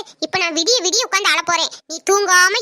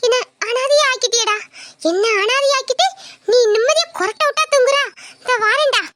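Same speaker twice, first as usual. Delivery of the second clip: angry scolding; 3 semitones higher than usual. Acted. Wife scolds sleeping husband.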